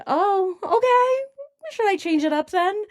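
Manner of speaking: high-pitched mock "oh, okay"; mock obliging reply. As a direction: pitch it way up, questioning, playing agreeable. Acting out her reply to complaints.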